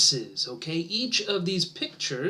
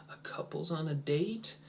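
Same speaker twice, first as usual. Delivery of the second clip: whispered student answer; 7 dB quieter than usual. Pretend. Teacher voicing a shy student, whispered. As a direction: breathe the answer with no voice.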